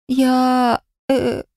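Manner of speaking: flustered, caught out; startled stammer. A narrator's reading. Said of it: "я дёрнулась".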